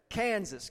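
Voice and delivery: "Kansas" with a drawled first syllable. Shown as a demonstration. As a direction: linger on the first vowel of "Kansas". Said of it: "kinda get a drawl".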